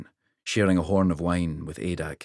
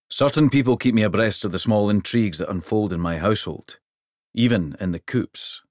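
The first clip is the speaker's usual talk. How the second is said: hearty king; 2 semitones higher, 4 dB louder than usual. Acted. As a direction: speak like a proud giant king. King's hearty voice.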